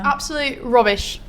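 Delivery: put-on joking British accent. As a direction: play at sounding British.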